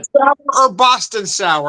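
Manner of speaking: slow and deliberate; careful unhurried voice. Shown as a demonstration. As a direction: lay it out slowly. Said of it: "let me say this slowly".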